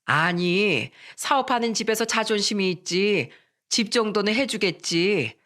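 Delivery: mildly brazen mother-in-law. Acted. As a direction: presume it shamelessly, drawing out the end. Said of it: "예비 장모는 뻔뻔하게 말씀하셨어요". (은근히 뻔뻔한 말투)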